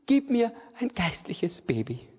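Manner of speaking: breathy whispered plea, retold; whispered prayer. Preacher retelling his prayer to Jesus, whispered plea. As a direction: whisper the plea for a spiritual baby.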